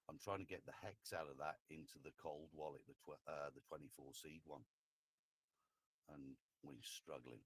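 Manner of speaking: faint, far from the mic; barely audible. Real, not acted. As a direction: voice too quiet on the call. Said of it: "try to turn your mic up".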